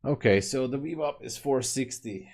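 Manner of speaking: speaking mid-yawn. Real, not acted. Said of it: "for me for yawning here".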